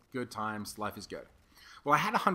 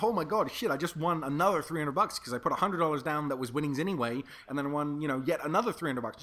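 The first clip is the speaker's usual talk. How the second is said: higher, louder rush of good news; excited boasting; 5 semitones higher, 4 dB louder than usual. Retold or imitated. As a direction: blurt out the big win, thrilled. Excitedly texting girlfriend about win.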